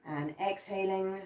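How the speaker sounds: slow it right down on "and exhaling"; drawn-out exhale cue. Shown as a demonstration. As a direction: stretch "exhaling" slowly, easing the breath out. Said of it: "four breaths".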